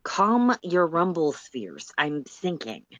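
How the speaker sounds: slow, unbothered drawl; slow calm Solix. Acted. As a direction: brush her off lazily. Solix answers in character.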